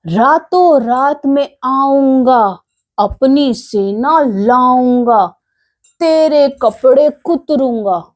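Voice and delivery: slow, mock-menacing mouse threat; angry threat. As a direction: spell out the threat slowly, a touch of anger. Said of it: "चूहे को फिर से गुस्सा आ गया". (धीमी, हल्की गुस्से वाली धमकी)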